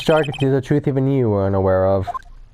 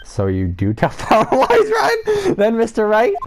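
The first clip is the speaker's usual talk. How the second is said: crying shout; 9 semitones higher, slower than usual. Acted. Character breaks down accusing lawyer.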